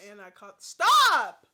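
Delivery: calm words, then a sudden furious yell; calm turning angry. Real, not acted. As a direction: snap from calm into a loud stop. Breaks off story to scold.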